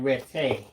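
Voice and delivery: "ready" said as "ret-TAY"; emphasis on the Y. Shown as a demonstration. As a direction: hit a long "TAY" to end "ready". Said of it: "Emphasis on the Y".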